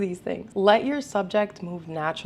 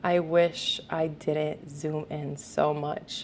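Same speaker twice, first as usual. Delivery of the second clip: regretful mutter; 4 semitones lower, 4 dB quieter, much slower than usual. Retold or imitated. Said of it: "being like".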